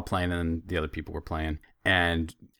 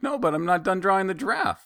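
put-on grumpy child; 11 semitones higher than usual. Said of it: "a little grumpy about it".

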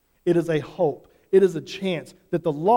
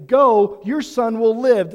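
commanding quote; 4 semitones higher, 9 dB louder, slower than usual. Retold or imitated. Quoting Jesus's command.

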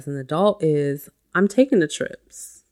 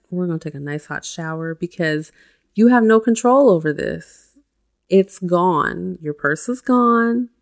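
reassuring perfect mom; 4 dB louder than usual. Shown as a demonstration. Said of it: "How would the perfect mom talk to you?".

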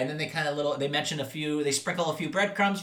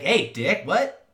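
mock indignant yell; 7 semitones higher, 5 dB louder, much slower than usual. Walt punched, retold.

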